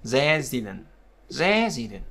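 Resident said as RE-si-dent; careful demo of Resident, front-stressed; stress on first syllable. Shown as a demonstration. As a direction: lean on the opening syllable of Resident. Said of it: "trọng âm thứ nhất rồi".

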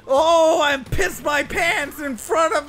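mock wail. Hammed-up despair over a mistake.

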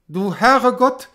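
high, loud, drawn-out cry of shock; startled cry. A narrator's reading. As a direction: cry out slowly in awe and shock. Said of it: "rief er". (erschrockener, gedehnter Ausruf)

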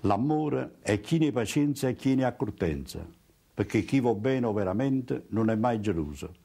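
reading scripture in Neapolitan dialect; a Bible verse read in Neapolitan. Shown as a demonstration. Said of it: "Non tutti forse riconosceranno l'inno alla carità". (lettura in dialetto napoletano)

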